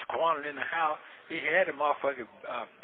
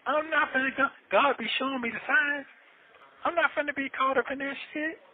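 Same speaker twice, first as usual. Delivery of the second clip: much higher and louder, fired up; real indignant rant; heated outburst; 11 semitones higher, 4 dB louder than usual. Real, not acted. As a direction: shout your refusal in real frustration. Angry outburst about jail cellmates.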